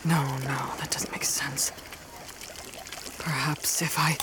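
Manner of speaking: low, hushed self-talk; absorbed half-whisper, low and tentative; muttering to himself. Acted. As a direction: think aloud under your breath. Scientist mutters to himself at work.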